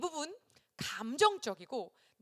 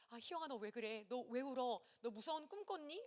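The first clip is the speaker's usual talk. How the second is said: much softer, half-awake concern; drowsy soothing; 10 dB quieter than usual. Retold or imitated. Carer woken at dawn by a crying child, drowsy and soothing. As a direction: gently hush a crying child, barely awake. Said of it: "내가 너무 비몽사몽간에".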